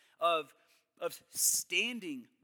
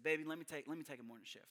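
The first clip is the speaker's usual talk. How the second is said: soft offer to wife; 4 semitones lower, 9 dB quieter than usual. Retold or imitated. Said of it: "I said".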